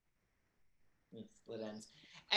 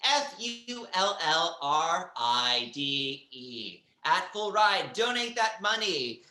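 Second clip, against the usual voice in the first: emphatic fundraiser announcement; big, loud boast on the donation amount; hyped host appeal; 5 semitones higher, 6 dB louder than usual. Acted. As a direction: sell the donation like a showy host.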